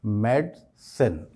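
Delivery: "मेडिसिन" in two slow beats, med-sen; teacherly "मेडिसिन", split MED, sen; correct pronunciation. Shown as a demonstration. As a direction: model "मेडिसिन" slowly as MED-sen, middle i dropped. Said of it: "सही pronunciation क्या होगा".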